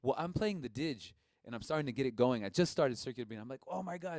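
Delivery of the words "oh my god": higher-pitched awestruck exclamation; retold amazement. Player amazed by first circular breathing, awestruck. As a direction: act out being amazed.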